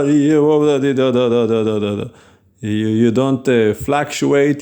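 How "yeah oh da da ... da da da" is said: lightly voiced preacher babble rising and falling; mock preacher sing-song. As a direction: parody a voice that fluctuates. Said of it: "sound like a Baptist Southern preacher".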